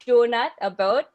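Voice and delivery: "donut, a boat" with Canadian vowels; Canadian accent. Shown as a demonstration. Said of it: "words I kinda know how to say in a Canadian accent".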